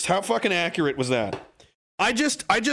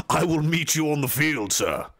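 formal duelling gentleman. Acted. Viewer's Manifest Destiny challenge, stately gentleman voice.

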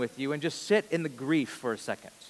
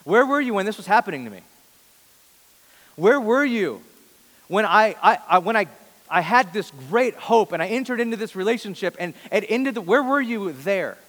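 louder pleading cry, pitch rising, stammering; anguished plea to God; 4 semitones higher, 5 dB louder than usual. Pretend. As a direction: cry out to God, demanding where he was. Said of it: "go before God and go".

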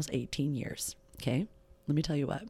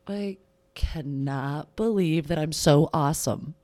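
loud, gushing mock amazement; mock self-praise; 7 dB louder than usual. Host imagining hearing her own recording, in loud mock awe. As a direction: ham up being stunned by yourself. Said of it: "I'm gonna be like".

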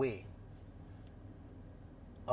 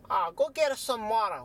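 acted order; 5 semitones higher, 4 dB louder than usual. Jerry orders Henry to fetch water.

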